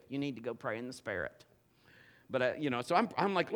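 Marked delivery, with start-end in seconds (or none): 0.1-1.4 a light, quiet mock-pious wife voice; hint of a churchy wife urging prayer; imitating wife. Husband imitating his wife's pious advice, softly mocking. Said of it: "If I'd go back to P K, she'd say".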